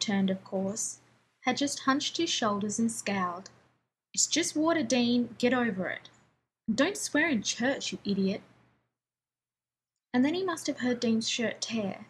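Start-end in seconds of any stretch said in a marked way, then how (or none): 4.1-8.4 annoyed. Acted. Annoyed brother snapping back.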